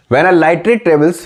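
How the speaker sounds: very slow, word by word dictation. Shown as a demonstration. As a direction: spell it out slowly so they can write. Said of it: "लिखो जल्दी copy में लिखो".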